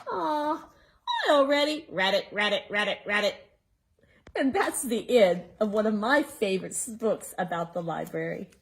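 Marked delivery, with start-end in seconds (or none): 0.1-3.3 lightly voiced frog croak; bullfrog croak. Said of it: "He said".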